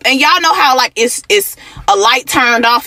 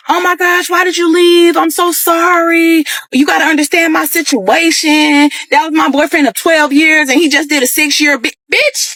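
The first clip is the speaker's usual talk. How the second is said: higher, pleading mock apology, slowing on "I'm so sorry"; stylist's frantic apology; 3 semitones higher than usual. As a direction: play the stylist begging forgiveness. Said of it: "the stylist texts me like".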